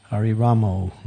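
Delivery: Ramo ending in a long O; Ramo pronunciation. Shown as a demonstration. Showing how some devotees chant in Kirtan, Ramo with an O. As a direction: end Ramo on "oh" instead of "ah". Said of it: "sometimes we chant Ramo".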